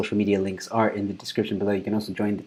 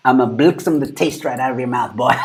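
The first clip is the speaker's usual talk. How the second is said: playful threat with a South African twang; 2 semitones higher, 4 dB louder than usual. Pretend. Streamer making it South African, mock threat in South African twang. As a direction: put a bit of South African accent on the threat. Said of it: "Give it, like, a South African twang".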